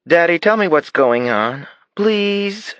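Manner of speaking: a small daughter begging her daddy; begging little girl. Acted. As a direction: daughter pleading with Daddy to tell her the secret, high begging child voice. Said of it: "clasped her hands in prayer and begged".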